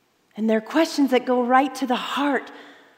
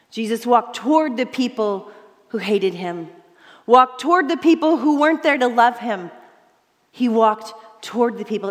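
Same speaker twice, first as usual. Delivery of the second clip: building emphasis; 3 dB louder than usual. Acted. Preacher builds emphasis, repeated phrase.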